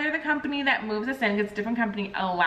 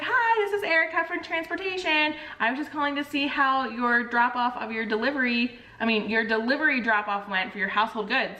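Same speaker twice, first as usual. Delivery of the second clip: chipper phone agent; 3 semitones higher than usual. Retold or imitated. Transport rep Erica calling the mover, lightly voiced chipper phone voice. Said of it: "she's like".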